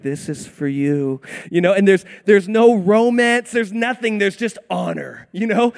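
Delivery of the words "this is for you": lower, slow courteous imitation; gentle, gallant. Boy pulling out a girl's chair, gentle imitation. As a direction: offer it ever so gently. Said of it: "ever so gently and just be like".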